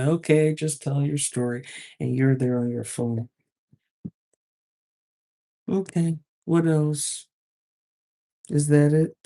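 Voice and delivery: dismissive and distracted, brushing them off; patronizing. Shown as a demonstration. Manager brushing off a complaint while on the phone, patronizing. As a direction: sound half-listening, like you're on your phone. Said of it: "in a patronizing way".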